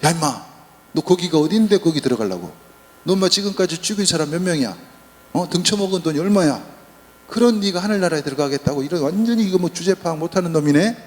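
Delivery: hammed-up rebuke for a laugh; mock harsh scolding. Preacher joking that Jesus scolds the thief, mock harsh rebuke. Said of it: "충격적인 말씀을 하십니다".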